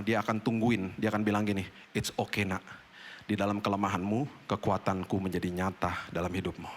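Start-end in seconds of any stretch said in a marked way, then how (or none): 1.9-6.7 soft, lower, tender father voice; tender reassurance. Retold or imitated. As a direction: comfort a child gently. God voiced tenderly to child. (suara ayah yang lembut dan pelan)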